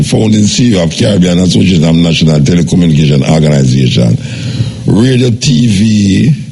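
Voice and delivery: low, measured radio presenter's read; lightly formal host introduction; radio guest introduction. Acted.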